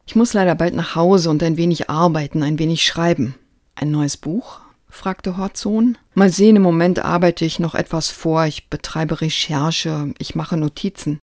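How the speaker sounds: lively storytelling read of a book passage; animated book reading; reading aloud. Acted.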